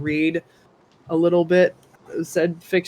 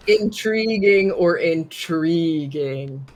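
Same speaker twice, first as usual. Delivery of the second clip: "Intriguing" stretched slowly, tried two ways; slow, deliberate weighing of "intriguing"; drawn-out word; much slower than usual. Shown as a demonstration. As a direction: linger over each "intriguing". Trying out deliveries of one word.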